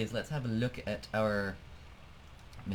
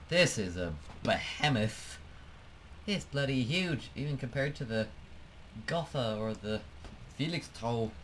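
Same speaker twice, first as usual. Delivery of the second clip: put-on German accent. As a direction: lightly put on a German accent, half without noticing. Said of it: "I said that with a German accent".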